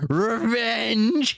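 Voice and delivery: high, loud snort of scorn. A narrator's reading. Dragon scoffs at the hobbit's talk of revenge, snorting. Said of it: "he snorted".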